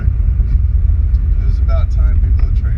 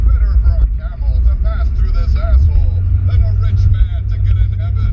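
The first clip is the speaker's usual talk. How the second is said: mock biblical preacher.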